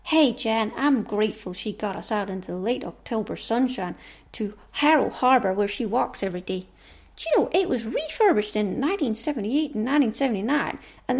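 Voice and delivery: put-on putting on an American accent; lightly voiced toy pals in American accents; chatty mock-American accent. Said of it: "that's my American accent".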